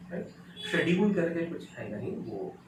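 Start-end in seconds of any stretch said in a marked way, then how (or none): 0.7-1.1 शेड्यूल with "sh" and a hard "d", no "j" sound; wrong pronunciation. Shown as a demonstration. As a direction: say the mistaken "sha-DOOL". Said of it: "बिल्कुल wrong है". (शेड्यूल का गलत उच्चारण, "ज" के बिना)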